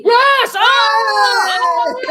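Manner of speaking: high, loud shocked cry. Acted. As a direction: gasp out in horror. Shocked at being eaten.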